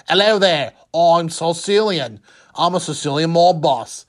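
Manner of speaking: a light, hammed-up Liverpool accent; mock Liverpool accent. Sicilian mob boss introducing himself in a mock Liverpool accent. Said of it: "had a heavy Liverpool accent".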